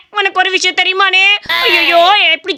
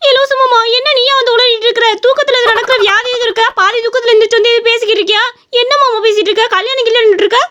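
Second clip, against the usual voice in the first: exasperated scolding; 5 semitones higher than usual. Acted. Woman baffled by raving uncle.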